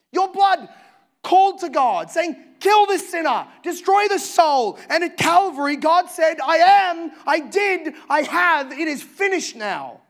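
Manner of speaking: high, loud, proclaiming at full force; fervent preaching. Acted. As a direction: thunder it out from the pulpit. Climax: sin's cry and God's answer.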